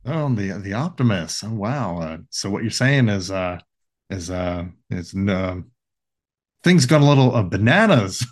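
halting, rambling impression with stray laughs; Jeff Goldblum. Answering the radio about a capture, as a stammering Jeff Goldblum. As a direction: fumble through fillers and restarts. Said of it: "he's, uh, Jeff Goldblum".

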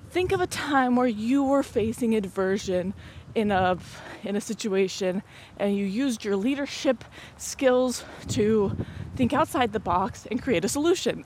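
slow, formal question-reading voice; formal interviewer voice. Retold or imitated. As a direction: read it out like a stiff exam prompt. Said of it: "very much giving me English class".

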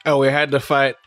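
ordinary talk

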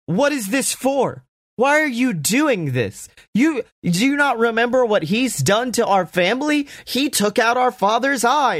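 high pleading whine, well above the speaker's own voice; whiny teen Dominic. Retold or imitated. Dominic scolding his sister in a high whine. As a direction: whine it like an upset teenage son. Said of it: "Dominic's like".

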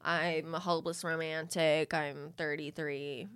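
slow, low confessional voice with fry; gossipy fake contestant intro, drawn out; vocal fry gossipy confessional. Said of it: "where it was like".

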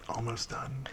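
soft whisper in his ear. Acted. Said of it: "leans over and whispers".

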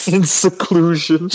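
imitating the butler's line; mimicking butler.

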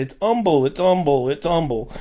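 Humble said as "umble", H dropped; silent H. Retold or imitated. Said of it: "my mom's always said".

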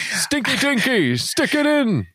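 high squeaky cartoon voice; silly high voice. Joining in silly voice.

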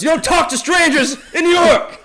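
high, loud mock New Yorker; New York friend. Friend insists to the visitor on the rule, mock New Yorker. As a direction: lay down the local rule.

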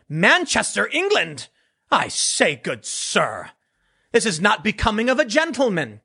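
lightly put-on posh British English, not far from his own voice; mock British accent. Replying to a Twitter critic from Manchester, mock British accent. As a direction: play a prim English gentleman, half-joking. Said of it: "translate my retort to British English".

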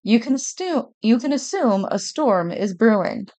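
lightly put-on news read; newscaster voice. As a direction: read it like a TV weather report. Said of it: "I'm trying to sound like a newscaster".

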